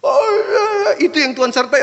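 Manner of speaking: loud, high imitation of impressed listeners; suara lantang meniru jemaat. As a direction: mimic their high-pitched approval. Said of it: "Apa mereka bilang". (meniru dengan suara tinggi dan lantang)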